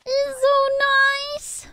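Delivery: slow, breathless whisper; emotional whisper. Real, not acted. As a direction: whisper it, overcome. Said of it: "Why am I emotional?".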